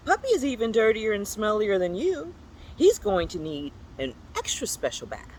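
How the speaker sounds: lightly voiced gloating character; gleeful character voice. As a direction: savour the threat of a bath. Character gloats about kitty's bath.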